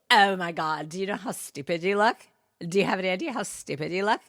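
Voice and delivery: put-on Valley girl. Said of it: "teenage Valley girls".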